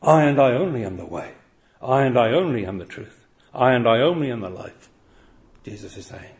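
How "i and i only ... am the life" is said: "I and I only" hammered with weight on "only"; emphatic I only. Shown as a demonstration. Preacher giving the emphatic Greek sense of Jesus' words. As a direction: stress "I" and "only" in each line. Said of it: "even more emphatic in the Greek".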